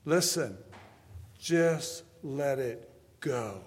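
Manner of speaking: slow, lightly voiced older preacher; drawn-out words of gentle counsel; mild impression of a preacher telling you to let go; imitating Steve Pickett. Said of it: "I can hear him saying".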